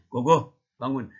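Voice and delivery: loud, unraised mock father voice; lightly acted dad ordering a child up; father's wake-up call. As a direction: rouse the child firmly, as a dad. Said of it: "Pas datang ayahnya".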